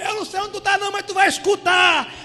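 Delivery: high, very loud and slow, dragging out Davi; desperate shout. Acted. Blind Bartimeu screaming at Jesus, desperate shout. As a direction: scream so he must hear you. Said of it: "Começou a gritar".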